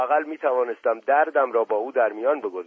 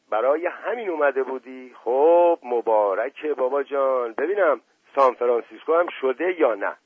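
put-on teasing old prince; 3 semitones higher, 4 dB louder than usual. Asadollah Mirza teases narrator.

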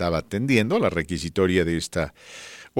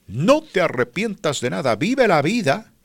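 high, preachy life-coach voice; preachy suitor voice; 8 semitones higher than usual. Pretend. Voicing the suitor's motto.

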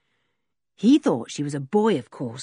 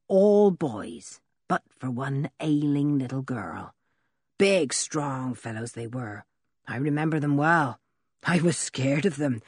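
lower, gruff country voice; rough old blacksmith; 3 semitones lower than usual. Acted. Blacksmith Ben's voice.

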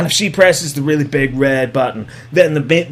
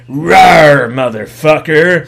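loud mock rawr; raptor roar; 2 semitones lower, 5 dB louder, slower than usual. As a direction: play the raptor growling back. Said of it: "Blue's like".

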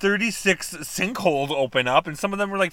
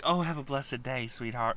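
mock Southern sweetness; 4 dB quieter than usual.

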